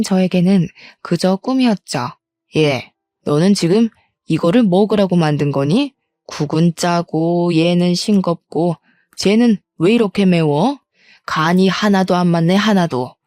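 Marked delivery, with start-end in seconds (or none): 2.6-13.1 nagging mother-in-law. Acted. Mother-in-law scolding daughter-in-law about the messy house, lightly voiced nagging. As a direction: nag her like a picky mother-in-law, mildly.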